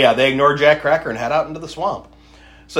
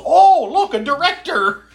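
high, loud mock excitement; mock excited gasp; 11 semitones higher, 4 dB louder than usual. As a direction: gush like an awestruck fan. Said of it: "And he goes".

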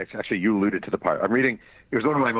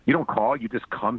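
mildly raised angry voice; growled; 3 semitones higher than usual. Retold or imitated. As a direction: growl the complaint. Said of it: "he growled".

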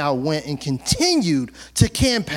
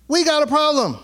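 complaining voice; 9 semitones higher, faster than usual. Acted. Acted quarrel between two people.

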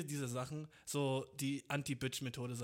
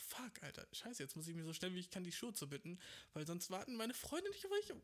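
fretting in a higher-pitched voice; mock panic; 4 semitones higher, 4 dB quieter than usual. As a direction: pitch climbs in hammed-up worry. Friend left behind tying shoes.

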